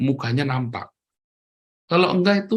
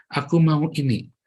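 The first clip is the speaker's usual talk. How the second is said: patient, deliberate example phrase; speaking nicely. Shown as a demonstration. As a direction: demonstrate asking properly, without yelling. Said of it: "ngomong yang baik".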